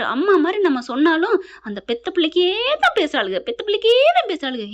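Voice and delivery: an acted mother-in-law's exasperated grumble; aggrieved complaint. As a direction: play up the grievance, pitch climbing on the repeat.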